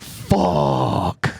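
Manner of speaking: breathy whispered fuck under the breath; stoned dread, whispered; whispered curse. Retold or imitated. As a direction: mutter it to yourself, dismayed. Stoned, dreading Scientology delivery.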